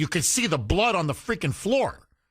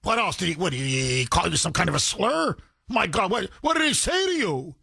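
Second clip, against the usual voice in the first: mock sympathy. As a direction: ham up the cops fussing over him.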